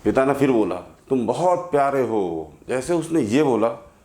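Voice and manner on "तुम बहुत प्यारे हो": gentle loving call. Acted. Father speaks kindly to hillside.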